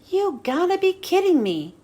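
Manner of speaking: can't believe it; a car who can't believe his sentence; disbelief. Acted. McQueen told to fix road.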